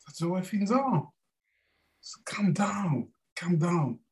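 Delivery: soft slow whisper; whispered calm down. Acted. Buddha soothes Mara with a slow whisper. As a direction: hush him gently.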